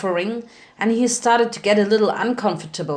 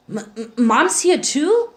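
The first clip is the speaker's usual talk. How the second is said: higher, stammering disbelief; stunned stammer; 4 semitones higher than usual. A narrator's reading. Spike hearing his mother is alive, stammering high. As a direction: catch on the first sounds.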